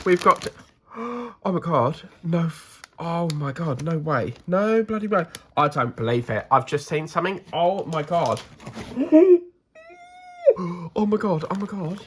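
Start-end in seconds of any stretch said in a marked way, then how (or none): 0.1-5.3 surprised. Real, not acted. Discovering big gift, gasping. 8.7-9.4 loud high shocked gasp; sharp gasp. Real, not acted. Big discovery.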